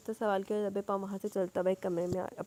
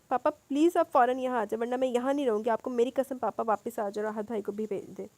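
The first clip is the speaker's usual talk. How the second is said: cry out; 4 dB louder than usual. Acted. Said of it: "وہ چیخ اٹھی".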